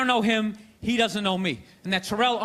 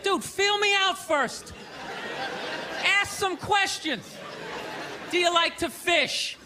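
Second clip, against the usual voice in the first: mock coaching; 4 semitones higher than usual. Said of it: "it's like".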